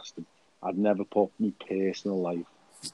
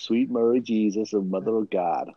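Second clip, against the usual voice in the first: put-on American accent; 3 dB louder than usual. Mock American apology, echoing co-host.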